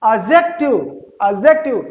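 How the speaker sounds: "adjective" with a silent d; correct pronunciation. Shown as a demonstration. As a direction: say "adjective" as AJ-ek-tiv. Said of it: "it is pronounced".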